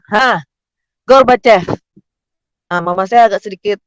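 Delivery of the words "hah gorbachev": mild startled yell, higher and louder; retold shout. Doctor exclaiming on lifting out the baby, mock shout. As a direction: call out "Gorbachev!" in mock surprise. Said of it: "dokter langsung teriak".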